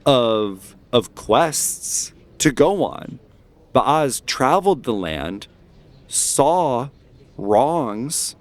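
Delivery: deliberate, emphatic orator with measured pauses; rally the crowd against the church; speech-making, key words drawn out; impassioned dissenter. Acted. GM voices agitator in the crowd.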